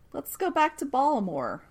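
"Baltimore" in a local accent, without the T. Shown as a demonstration. Moving the recap back to Baltimore, in the local Baltimore accent. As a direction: say "Baltimore" as locals do, dropping the T to "Ballamore". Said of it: "trying to say it like they say it with the accent".

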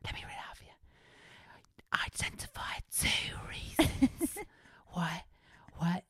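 loud whisper everyone can hear; mock invigilator stage whisper. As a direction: whisper it so the room hears. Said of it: "do it loud enough".

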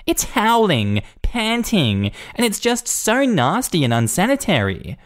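disgusted Karen. Acted. Karen listing the dog's noises, shrill with disgust. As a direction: spit out each word in disgust.

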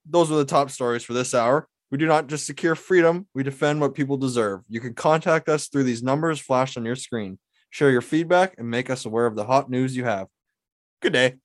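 measured broadcast read; news anchor voice. Shown as a demonstration. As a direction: sign off like a TV anchor. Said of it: "News anchor edition".

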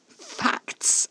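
high, airy scoff. A narrator's reading. Narrator throwing Caspar's word back, scoffing. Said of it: "I scoffed".

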